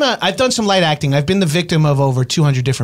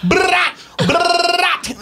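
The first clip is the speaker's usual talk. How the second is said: high yelp; 14 semitones higher than usual. Acted. Yelled jingle shout.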